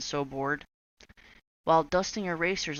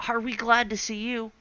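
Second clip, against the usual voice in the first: put-on relieved kids; 7 semitones higher, 4 dB louder than usual.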